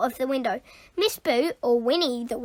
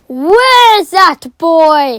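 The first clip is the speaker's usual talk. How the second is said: panting; 14 dB louder, much slower than usual. Acted. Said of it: "he panted".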